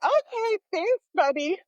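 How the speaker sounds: mock polite thanks. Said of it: "So I was like".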